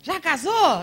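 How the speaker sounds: mock nosy churchgoer; nosy church member. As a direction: poke at her like a busybody. Church member asks if she married.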